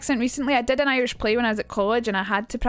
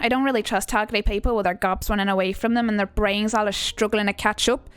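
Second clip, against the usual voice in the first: put-on Irish accent reading; performed monologue with an Irish accent. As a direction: read it in an Irish lilt.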